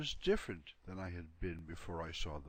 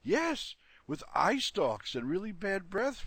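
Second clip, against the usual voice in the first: excited; 10 semitones higher, 9 dB louder, slower than usual. Acted. Dog confirms the monster.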